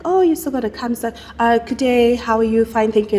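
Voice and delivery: lightly put-on British receptionist; polite phone greeting in a mock British accent. Spa host calling a client, playful British accent. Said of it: "I do this in a British accent".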